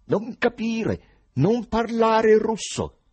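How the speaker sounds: high, loud, very slow hostile answer; hostile reply. A narrator's reading. Foreigner frowning at the man questioning him, hostile. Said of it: "rispose con ostilità".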